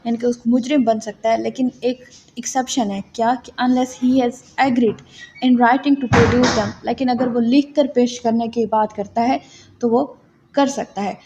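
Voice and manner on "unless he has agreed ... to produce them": slow statute reading. Shown as a demonstration. Re-reads the exception slowly.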